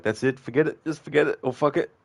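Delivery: quoting a viewer giving up, lightly voiced; mock exasperated chatter. Streamer imitating viewer quitting, mildly exasperated. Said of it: "you're like".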